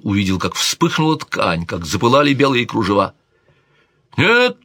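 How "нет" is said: much higher, cried out in horror; horrified scream. A narrator's reading. King sees her hand burn, horrified cry. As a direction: shriek the word as she burns. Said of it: "закричал он".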